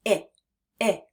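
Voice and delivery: I clipped short like "ih"; short quick I. Shown as a demonstration. Teacher demonstrating a quick, bouncy short I. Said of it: "short and quick, like this".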